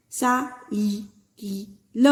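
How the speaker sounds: put-on साइकिल spelled out very slowly for children; slow classroom reading; slow syllable demo. Shown as a demonstration. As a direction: drag each syllable of साइकिल. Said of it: "छोटी ई की मात्रा है".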